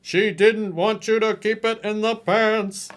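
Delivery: slow, loud sarcastic retort; mock the line back. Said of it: "coach's retort in voice".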